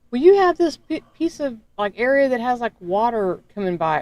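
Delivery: high, mocking official voice; a hammed-up bureaucrat excuse; mimicking officials. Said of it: "They were like".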